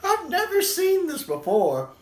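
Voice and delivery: high voice, still giggling; helpless, high-pitched laughter in the voice; laughing through words. Real, not acted. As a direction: squeeze the words out after a laughing fit. Recovering from a laughing fit.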